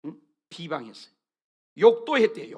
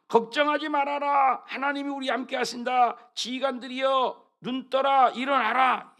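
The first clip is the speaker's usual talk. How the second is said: rally the troops like King Hezekiah; stirring battle cry from the king; rousing king's command; 2 semitones higher, 5 dB louder than usual. Acted. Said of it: "히스기야가 얘기를 한 거예요".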